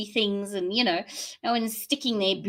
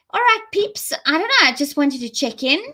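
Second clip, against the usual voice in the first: calling out; 6 semitones higher, 7 dB louder than usual. Real, not acted. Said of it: "calling out to viewers".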